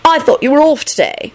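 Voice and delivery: high, pouting lament; forlorn. A narrator's reading. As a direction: whine forlornly, stretching the words. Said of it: "she added forlornly".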